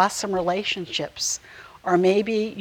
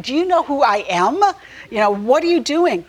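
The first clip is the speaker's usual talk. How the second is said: imitated indignant rant, a bit louder; mock ranting; 5 semitones higher, 5 dB louder than usual. Preacher imagining himself arrested, mock rant. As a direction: play at raving at the guards. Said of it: "ranting and raving".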